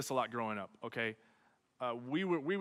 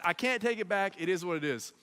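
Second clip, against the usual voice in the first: ordinary delivery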